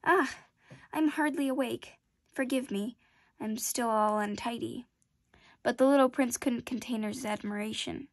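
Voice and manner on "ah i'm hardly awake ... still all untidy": mild yawn voice. Acted. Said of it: "she yawned and said".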